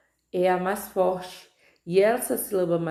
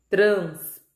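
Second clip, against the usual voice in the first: louder, with pauses between syllables; sílaba por sílaba; 5 dB louder than usual. Shown as a demonstration. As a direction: split Transporte into separate voice pulses. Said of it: "cada impulso de voz produzido". (palavra silabada em voz mais forte)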